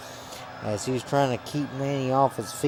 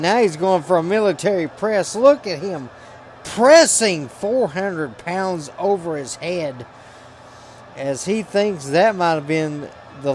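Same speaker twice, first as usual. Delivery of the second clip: louder, higher ringside call; excited play-by-play; 4 semitones higher, 4 dB louder than usual. Real, not acted. Commentator calls a military press to the audience, excited. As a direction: call the big moves with rising excitement. Live call of big wrestling moves.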